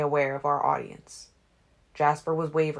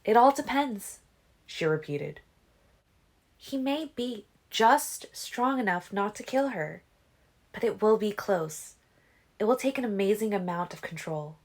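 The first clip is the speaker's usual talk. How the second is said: musing; 6 semitones higher than usual. A narrator's reading. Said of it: "she mused".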